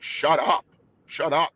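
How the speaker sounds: exasperated outburst. Retold or imitated. Telling his nonstop brain to quit, exasperated. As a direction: snap at your own racing thoughts. Yelling at own racing thoughts.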